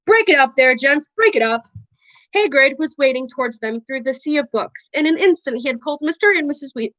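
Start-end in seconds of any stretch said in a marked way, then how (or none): 0.1-1.6 a raised, booming call to stop a brawl; a big man calling out over the fight; loud call. Acted. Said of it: "and then louder than all".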